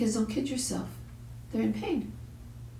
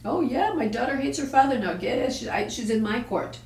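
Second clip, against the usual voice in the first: smug mother; 4 semitones higher than usual. Retold or imitated. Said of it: "like most mothers would have".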